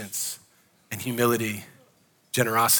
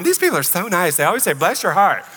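lilting, higher naive gush; naive gushing newcomer; 4 semitones higher than usual. Retold or imitated. Newcomer texting friends back in Idaho, gushing naively. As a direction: imitate a delighted newcomer, mock-impressed.

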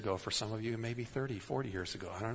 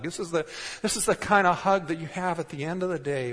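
excited preaching; 6 semitones higher, 6 dB louder than usual. Real, not acted. Preacher climaxing on joyful hug.

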